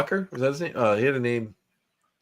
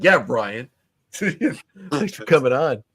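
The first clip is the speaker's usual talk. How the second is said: imitating a co-host's over-forceful thanks; mock aggressive; much slower than usual. Teasing co-host about thanking Ryan, mock aggressive. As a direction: tease his pushy delivery, laughing midway. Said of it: "that sounded kind of aggressive".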